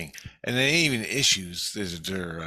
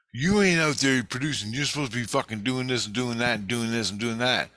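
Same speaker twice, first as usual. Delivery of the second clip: mock yell; 4 semitones higher than usual. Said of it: "starts yelling at me".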